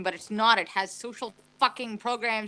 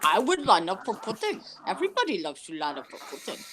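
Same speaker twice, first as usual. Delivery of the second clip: lightly voiced politician impression; a hint of a folksy old politician; Bernie Sanders; 3 semitones lower than usual. Continuing the contest over lining up, lightly voiced Bernie Sanders. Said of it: "I can do a better Bernie Sanders".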